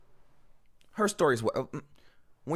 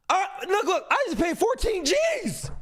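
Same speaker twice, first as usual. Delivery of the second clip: laughing outrage; 6 semitones higher than usual. Real, not acted. Outraged at going to sleep.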